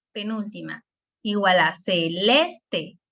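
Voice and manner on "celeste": celeste slowed into ce-LES-te; syllable by syllable. Shown as a demonstration. Teacher showing three syllables in a word, celeste slowly syllable by syllable. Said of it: "tres sílabas".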